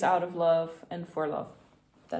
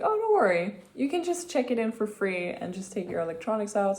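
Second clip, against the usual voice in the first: stewardess; 4 semitones higher than usual. Retold or imitated. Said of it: "And she was like".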